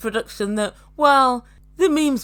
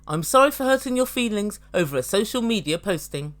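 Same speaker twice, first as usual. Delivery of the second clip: unfeeling. Retold or imitated. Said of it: "he literally said it like that, unfeeling, uncaring, and unapologetic".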